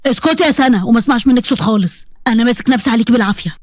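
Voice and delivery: low male voice, restrained anger; stern angry husband. Acted. Husband telling his bride to be silent, low and stern.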